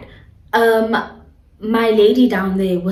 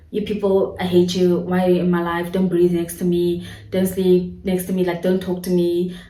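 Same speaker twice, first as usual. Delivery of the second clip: irritated grumbling; 2 semitones lower than usual. Retold or imitated. Imitating a mood swing at housemates, irritated grumble. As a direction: grumble it as if fed up with everyone. Acts sudden hatred of people around.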